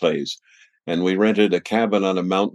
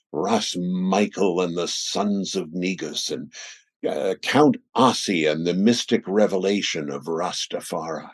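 radio voice. Real, not acted. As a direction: savor the names like a radio host. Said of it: "when you say it with your radio voice".

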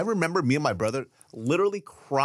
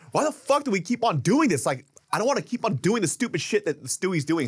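mock exasperated rant, higher pitch; Michael McDonald; 8 semitones higher than usual. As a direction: retell an actor's pissed-off complaint. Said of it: "was getting really pissed".

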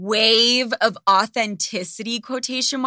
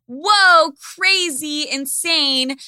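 loud, high fake awe; sarcastic mock amazement; 4 semitones higher, 7 dB louder than usual. Mocking an influencer's eyelash post, loud sarcastic awe. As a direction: gush with heavy sarcasm.

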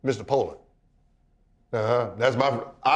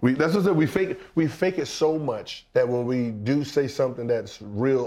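normal talking voice

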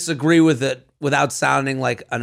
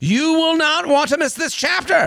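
ad read. Acted. Sponsor ad read.

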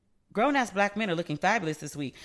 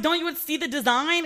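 retold incredulous; 8 semitones higher than usual. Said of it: "And I was like".

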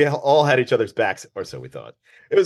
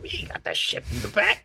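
mock waiter voice; 7 dB quieter than usual. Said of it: "They'll be like".

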